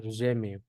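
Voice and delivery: gemio as "ZHE-miu"; Portuguese pronunciation demo. Shown as a demonstration. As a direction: buzz the g of gemio like zh. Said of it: "vamos a poner".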